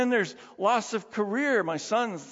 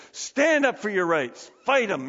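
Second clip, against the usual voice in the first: mock rallying cry; 2 semitones higher, 4 dB louder than usual. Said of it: "society says".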